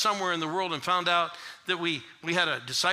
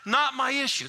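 high, loud chant with a laugh; shouting it; 7 semitones higher, 3 dB louder than usual. Retold or imitated. Pastor shouting his catchphrase in the car, loud. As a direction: belt the catchphrase out. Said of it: "I started shouting it".

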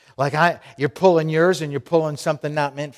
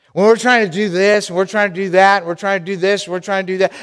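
frantic; 6 semitones higher, 4 dB louder, faster than usual. Acted. Frantic listing.

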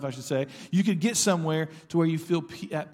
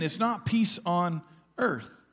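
slow, leaning on not and peace; stress on not; slower than usual. Shown as a demonstration. Pastor correcting the congregation's reading, slow and stressed. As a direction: draw out not peace on earth. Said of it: "It's peace to men".

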